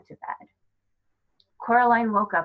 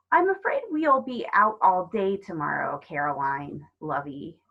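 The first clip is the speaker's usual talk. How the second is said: Miss Forcible. Acted. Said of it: "said Miss Forcible".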